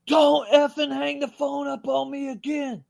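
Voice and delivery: high, loud scolding warning; mock-angry producer telling him off; annoyed producer. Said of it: "and he's like".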